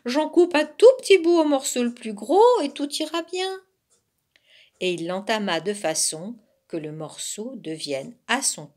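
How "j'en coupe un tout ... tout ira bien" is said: high, loud fox with a mouthful; lightly faked talking while chewing; mouth full. A narrator's reading. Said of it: "la bouche pleine". (la bouche pleine, voix aiguë et forte)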